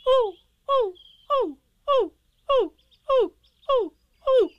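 bouncing excitedly. A narrator's reading. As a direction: let each ooh fly up as he bounces. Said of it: "went on bouncing and saying".

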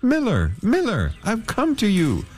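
man calling to the miller. Acted. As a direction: call out to the miller, pleading. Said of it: "called to the dusty miller".

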